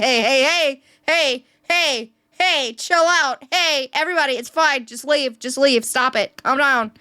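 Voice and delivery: hey-hey-hey, play the stagehand soothing a fight, understated; imitating production crew. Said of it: "production's trying to calm him down".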